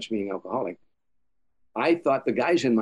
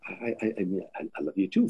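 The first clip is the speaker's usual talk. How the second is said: flustered stammer; 2 semitones lower, 5 dB quieter than usual. Retold or imitated. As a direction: stumble over the words, caught off guard. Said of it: "I started stammering".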